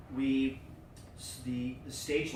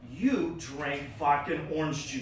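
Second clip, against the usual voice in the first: quoting with laughter, louder; laughing through it; 3 semitones higher, 10 dB louder than usual. Retold or imitated. Bartender recalls his old order, retold through laughter. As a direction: laugh as you quote him.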